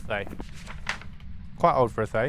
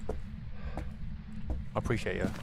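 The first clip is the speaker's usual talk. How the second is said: whisper; 7 semitones lower, 12 dB quieter, much slower than usual. Real, not acted. Thanking a viewer.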